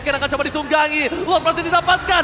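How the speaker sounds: esports caster. Real, not acted. Live esports play-by-play.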